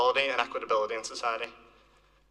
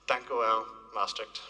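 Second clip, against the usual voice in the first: non-Dutch accent; slower than usual. Real, not acted. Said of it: "in my not-so-Dutch accent".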